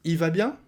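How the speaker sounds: "il va bien" said "i va bien"; "il" cut to a bare "i", rising question; dropped L. Shown as a demonstration. Asking after the brother, L swallowed. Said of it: "Le il devient i".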